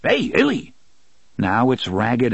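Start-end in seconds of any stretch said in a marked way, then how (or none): 0.0-0.7 very high hoarse squawk; hoarse creature call. Acted. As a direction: mimic the call like a talking pet. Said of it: "its hoarse voice".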